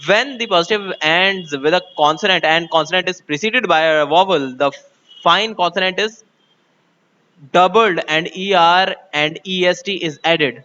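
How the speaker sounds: slow, careful dictation of a textbook rule; spelling out a grammar rule slowly; slow rule reading. Acted. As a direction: read the rule out word by word. Reads English rule aloud slowly.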